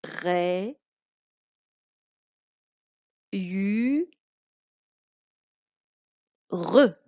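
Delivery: "Ré, u, re" split into slow separate syllables. Shown as a demonstration. Teacher splitting a word into syllables for a pupil. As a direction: spell it out in three slow syllables. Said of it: "c'est un Y".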